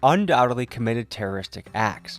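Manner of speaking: measured, articulate documentary voice-over; scripted news commentary. Real, not acted. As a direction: read it as a reasoned explainer to viewers. Reads scripted commentary to viewers.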